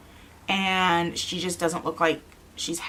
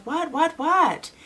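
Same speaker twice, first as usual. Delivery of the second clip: high, urgent alarmed questioning; acted-out startled alarm; retold alarm; 10 semitones higher, 4 dB louder, much slower than usual. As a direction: jump up in pitch, panicked by a scream. Mother reacting to screaming child.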